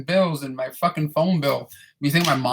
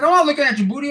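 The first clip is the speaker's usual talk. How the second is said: much higher put-on denial; lady's denial; 11 semitones higher, 4 dB louder, faster than usual. Boss lady denying she's looking, in a high mock voice. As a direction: protest in a high, mock-offended voice. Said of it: "She's like".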